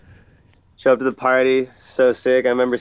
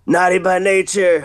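raised voice announcing the act; mock announcement; 6 semitones higher than usual. Crew revealing the surprise band to him, mock announcement. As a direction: announce a surprise guest, pitched up.

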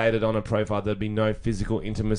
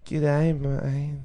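slow, drawn-out mock Aussie accent; attempted Aussie accent; 3 semitones higher, much slower than usual. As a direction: stretch out a would-be Aussie accent. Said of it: "I don't even reckon he'd have a good Aussie accent".

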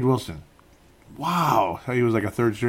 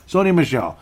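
annoyed; 3 semitones higher, 6 dB louder than usual. Real, not acted. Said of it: "I am getting annoyed".

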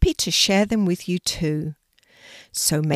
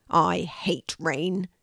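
put-on slow sulky cross boy; crossly; much slower than usual. Louis sulking about the rain to his mum, slow and cross. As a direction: drag the words out in a sulk. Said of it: "said Louis crossly".

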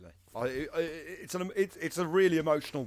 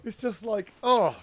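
swooning; 6 semitones higher, 4 dB louder, slower than usual. Real, not acted. Gushing over emotional quote.

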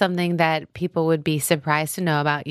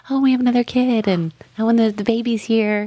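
higher, louder eager pitch; lilting, raised-voice wishful plea; eager pleading; 6 semitones higher, 4 dB louder than usual. Acted. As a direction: coax your husband with bubbly enthusiasm. Voicing own pitch to husband.

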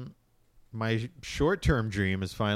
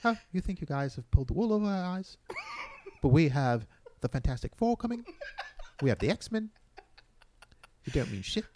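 mock taunt; 10 semitones higher than usual. Marvel taunting Sony, mock bravado.

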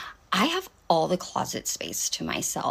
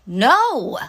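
a curt, loud, final refusal; firm loud no; flat blunt no; 7 semitones higher, 6 dB louder than usual. Retold or imitated. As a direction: shut him down hard with one word. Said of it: "I'm not even, like, mean like that".

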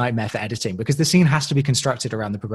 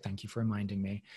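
a hint of sarcasm; 3 semitones lower, 14 dB quieter than usual. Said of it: "Alex is like".

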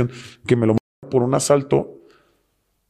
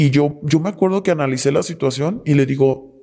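ordinary talk, nothing marked

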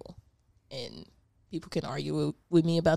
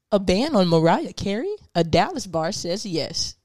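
anchor woman voice; 7 dB louder than usual. Pretend. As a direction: announce it like a TV anchorwoman. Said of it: "Give us your best anchor woman voice".

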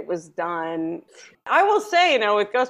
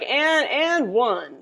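drawn-out, higher excited mimicry; imitating excitement; 5 semitones higher, much slower than usual. Teasing co-host's love of a basketball play, imitated excitement. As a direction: stretch it out like a thrilled fan. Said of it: "he gets really excited".

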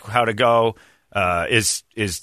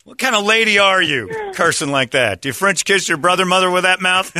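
prim scolding lady voice, pitched up; man doing a woman's voice; 5 semitones higher than usual. Acted. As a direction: play a shocked proper church lady. Scolding someone for cursing.

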